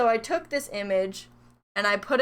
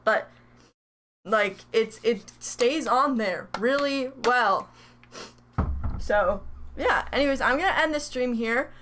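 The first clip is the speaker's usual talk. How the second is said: hiccups; 4 dB louder than usual. Real, not acted. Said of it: "I have the hiccups".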